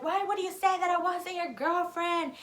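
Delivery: high, slow indignant question; imitated confronting. Girlfriend confronting him on the phone, imitated indignant demand. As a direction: mimic her demanding an explanation.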